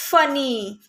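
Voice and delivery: फनी with a long held ee; teacher demonstrating फनी, final vowel stretched; long E ending. Shown as a demonstration. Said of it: "long ई sound की तरह".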